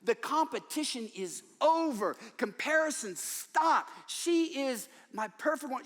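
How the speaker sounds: loud, slow, fervent husband declaring his love; devoted husband. Acted. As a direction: proclaim it slowly like a smitten husband. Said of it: "So husband said".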